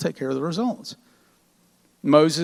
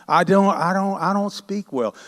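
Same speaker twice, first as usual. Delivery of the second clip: fishing for sympathy; 4 semitones higher than usual. Acted. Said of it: "He's fishing right now".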